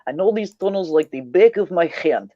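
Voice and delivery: Russian accent. Shown as a demonstration. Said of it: "easy to pronounce in Russian".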